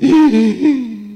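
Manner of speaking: gasp. Retold or imitated. Seeing the person from the dream.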